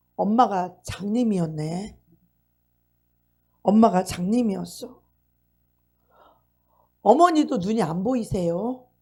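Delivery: mock sobbing through the words, tearful crying. Retelling a daughter's words as she hugs her mother: imitating crying speech. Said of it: "껴안고 막 울면서 말했다는 거예요".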